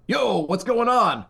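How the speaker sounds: slow, laid-back mock greeting; casual phone opener; too casual. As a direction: drawl it like a buddy, not a caller. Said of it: "I can't be like".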